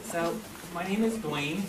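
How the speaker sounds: slow, careful name; over enunciating. Shown as a demonstration. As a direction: say your name slowly and clearly. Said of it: "I say it very slowly".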